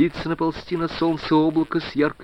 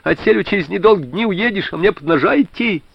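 frantic outcry; 9 semitones higher than usual. A narrator's reading. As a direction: blurt it out in a panic. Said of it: "вдруг выкрикнул ошалело". (ошалело выкрикнуть)

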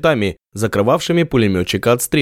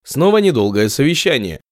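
usual speaking voice

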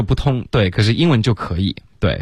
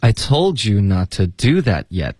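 slightly slower model; slower than usual. Shown as a demonstration. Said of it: "来跟着老师读吧".

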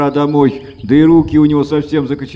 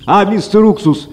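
parrot calling out; 7 semitones higher than usual. A narrator's reading. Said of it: "попугай окликнул его". (громкий крик попугая)

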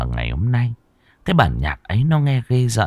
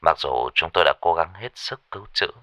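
lower, softer, measured bad news; forced calm; 4 semitones lower, 3 dB quieter than usual. Caller breaking news of the death to the old father. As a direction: try to stay calm delivering it. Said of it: "vẫn cố giữ vẻ bình tĩnh".

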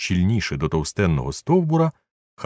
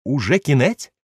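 near shriek; 8 semitones higher, 4 dB louder than usual. A narrator's reading. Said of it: "мало не вереснув Легран".

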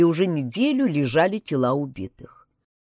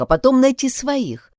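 ordinary delivery, nothing marked

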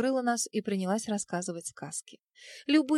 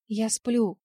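ordinary delivery

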